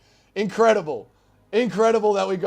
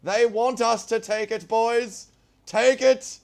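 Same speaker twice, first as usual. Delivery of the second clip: a lightly voiced battlefield commander rallying his men; rousing the troops; 4 semitones higher, 3 dB louder than usual. Streamer playing a commander rousing his troops, light rallying speech. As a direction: pump up the boys like a mock general, a bit higher. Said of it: "Impression of rousing the troops".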